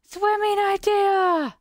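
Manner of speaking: slime voice. Acted. Gamer voicing a slime's thoughts, high squeaky creature voice. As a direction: voice the happy slime, stretched out and squeaky. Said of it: "I imagine that that's what they're saying".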